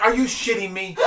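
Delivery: shocked outburst over a prank; retold yell. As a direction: yell it at your son in the store. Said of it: "I'm yelling at him".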